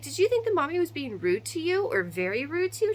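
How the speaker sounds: playful, put-on mommy voice quizzing her child; goofy mommy voice. Mom quizzing her daughter in a goofy put-on voice. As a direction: ham it up as a silly mom. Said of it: "I was being all goofy".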